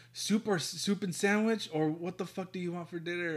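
high-pitched retold exasperation; exasperated questioning. Asking partner about dinner in a retelling, exasperated. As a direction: re-enact pressing an indecisive partner.

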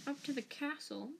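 a silky, mocking echo. A narrator's reading. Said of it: "said Snape silkily".

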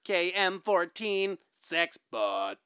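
slow, stiff robot voice. Pretend. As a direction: speak like a sex robot. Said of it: "I like talking like a robot".

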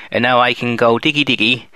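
rustic West Country farmer voice; West Country accent. Pretend. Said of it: "I can't get that voice up for long".

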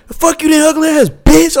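high, petty "ugly ass bitch"; mock angry friend. Imitating his friend cursing a girl who refused to dance, high mock anger. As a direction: spit it like a sore loser. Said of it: "he was like".

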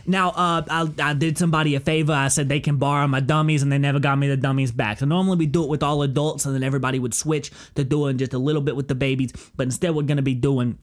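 lightly imitated rambling instructor; comic accented instructor; instructor impression. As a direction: lay out the class plan in a put-on accent. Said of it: "he's just, like, laying it out".

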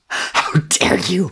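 How dare you! yelled high and slow, YOU hammered; full-throated slow high yell; shouted. Acted. Crow screaming at the coward, high slow yell. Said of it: "he shouted".

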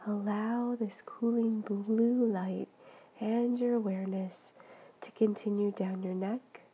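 soothing body-scan guidance, phrase by phrase; guided meditation. Real, not acted. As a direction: guide them gently and unhurriedly into relaxation.

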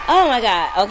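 real emotion bursting out; overwhelmed exclamation. Real, not acted. Host overcome as her friend joins, loud emotional outburst. Overcome when guest arrives.

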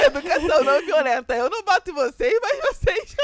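high, loud words broken by laughter; giggling as she mocks her own rule; laughing through words. Real, not acted. Mother laughing at her own parenting rule, words breaking into giggles. Laughing while quoting herself.

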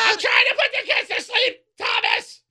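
mock shout. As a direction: shout back from putting the kids down. Acted parent reply, laughing.

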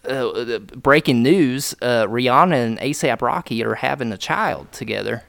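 mock country newsreader; country accent. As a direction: announce news in a put-on country accent. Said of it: "doing the fucking country accent".

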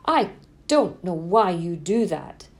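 put-on the better way to start the chat with a teen; gentle curious version. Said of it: "Versus like".

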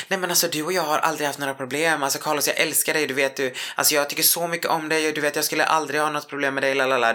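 high, hurried, flustered pleading; mock nervous backpedal. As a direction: babble to smooth things over. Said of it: "så hon blev helt nervös och bara". (högre, nervös och forcerad bortförklaring)

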